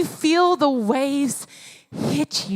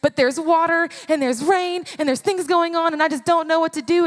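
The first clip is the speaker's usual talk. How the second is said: mildly frantic, run-on worrying; 3 semitones higher, faster than usual. Acted. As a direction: play flustered disciples piling up worries. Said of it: "They're frantic".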